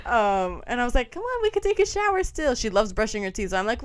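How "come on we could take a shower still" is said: put-on high-pitched child-directed voice; reenacted sweet-talking, pitched high; coaxing. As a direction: gently talk a toddler into it.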